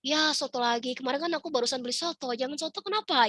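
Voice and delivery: retold picky complaint, rising at the end; lightly whining refusal; whiny objection. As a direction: turn down the suggestion with mild reluctance. Acts out herself rejecting husband's suggestion.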